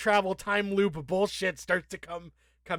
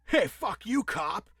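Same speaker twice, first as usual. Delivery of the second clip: mock rude; 4 semitones higher, slower than usual. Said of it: "Jake's like".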